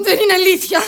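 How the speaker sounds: high, loud contradiction; furious denial. Acted. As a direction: cut in and deny it hotly. Daughter contradicts the mother. (οργισμένη, δυνατή διάψευση)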